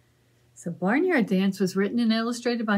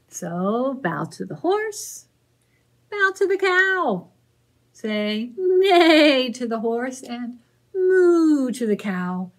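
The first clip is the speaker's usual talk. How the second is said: loud, slow and bouncy; lively read-aloud; 3 semitones higher, 4 dB louder, slower than usual. Acted. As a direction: call out the dance steps to the kids. Reading picture book aloud.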